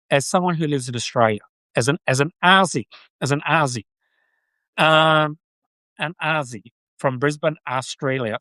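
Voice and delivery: Aussie putting on an American accent. Shown as a demonstration. Aussie streamer showing viewers his American accent. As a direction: speak it in your best American accent. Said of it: "So that's my American".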